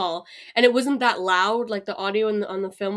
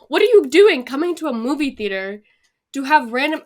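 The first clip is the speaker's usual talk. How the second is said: retold rant, higher and louder; exasperated scolding; 4 semitones higher, 4 dB louder than usual. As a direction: act out telling off rude moviegoers. Retells scolding talkers in cinema.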